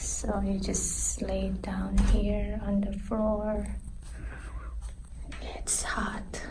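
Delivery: soft breathy whisper while lying down. Real, not acted. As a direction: hush it, as if in a spa. Lying in the hot salt room.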